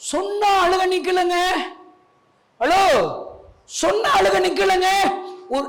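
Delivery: high, insistent pulpit challenge; exasperated preacher pressing the point; forceful preaching. Real, not acted.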